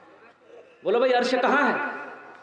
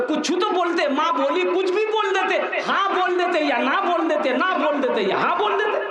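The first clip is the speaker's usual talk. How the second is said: higher-pitched, mock-exasperated nagging; exasperated scolding; 6 semitones higher than usual. Mother to son silent at his in-laws', exasperated. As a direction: nag him with rising insistence.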